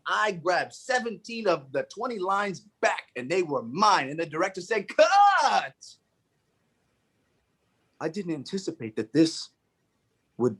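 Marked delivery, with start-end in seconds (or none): 4.9-6.0 high called cut. Retold or imitated. Director stopping the take, calling out cut. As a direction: call cut across the set.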